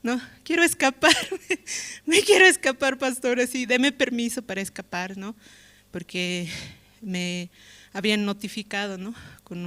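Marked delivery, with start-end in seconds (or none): 0.0-5.2 much higher, desperate pleading to the pastor; retold tearful plea. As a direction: beg the pastor to let you escape, voice pitched way up. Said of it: "Ayer estaba llorando donde el pastor".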